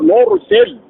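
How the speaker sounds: نرسل slowly, with a thick R; heavy silent-vowel ra. Shown as a demonstration. Teacher gives damma example, slow heavy R in نرسل. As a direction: hold a heavy R after the u in نرسل. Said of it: "وسبق بضم تلوناه مفخما".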